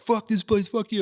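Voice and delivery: high-pitched petulant cursing; mock indignation. Kids walking away cursing the shop, high mock indignation. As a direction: imitate kids storming off in protest.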